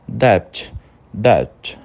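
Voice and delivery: "debt" with the B barely touched before T; B bem levinho. Shown as a demonstration. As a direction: say "debt" with a near-silent B. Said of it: "ele é tão levinho". ("debt" com o B tão leve que quase some)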